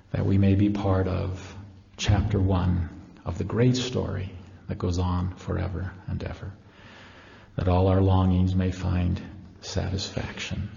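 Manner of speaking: measured prayer in short, paused phrases; closing prayer. Real, not acted. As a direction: pray it gently, settling toward the Amen. Closes the talk with a prayer.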